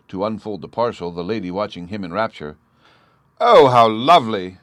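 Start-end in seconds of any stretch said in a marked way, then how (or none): 3.4-4.6 much louder gasp of delight; delighted cry. A narrator's reading. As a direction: cry out in rapture. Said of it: "she cried".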